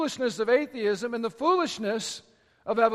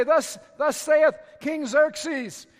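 royal herald; 4 semitones higher, 4 dB louder, much slower than usual. Retold or imitated. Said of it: "the messenger would come up and they'd say".

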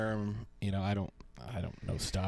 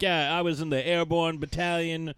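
bluffing vet; 6 semitones higher, 4 dB louder than usual. Retold or imitated. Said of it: "He's like".

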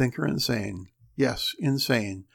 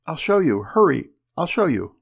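gasping panic; 4 semitones higher, 6 dB louder than usual. Acted. Wheezing, gasping panicked wife.

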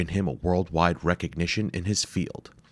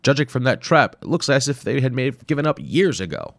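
higher, louder assured reasoning; confident explorer; 8 semitones higher, 6 dB louder than usual. Acted. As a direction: brush off the danger. Hayabusa explains.

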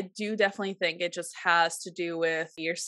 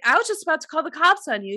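excited; 8 semitones higher, 5 dB louder, much faster than usual. Retold or imitated. Retelling argument with husband.

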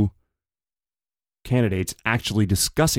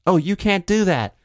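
a much higher, dismissive brush-off; mock Trump dismissal; 9 semitones higher than usual. Trump brushing off the interviewer's question, high mock dismissal. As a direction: wave it away in a high mock voice. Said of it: "Trump's response was".

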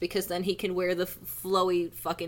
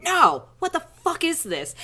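mock outraged yell; 8 semitones higher, 6 dB louder than usual. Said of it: "And you're like".

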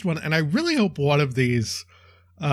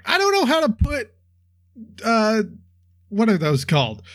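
much higher, confused yokel voice; dim stable hand voice; 7 semitones higher than usual. Retold or imitated. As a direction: play a bewildered stable boy. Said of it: "the stable hand's like".

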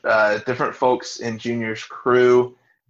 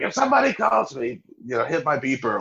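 imitating yelling husband; 3 semitones higher than usual. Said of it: "he yells at his wife".

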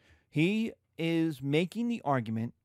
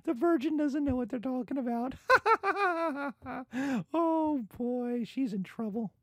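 very high, hammed-up laughing crowd; mock audience laughter; 11 semitones higher than usual. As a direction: laugh at the naive virgin. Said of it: "the audience would all be like".

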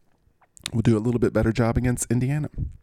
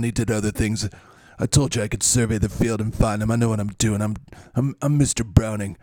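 lightly voiced aggressive braggart; Mister Browning. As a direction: boast with a touch of aggression. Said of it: "so glad to have your aggressive behavior back".

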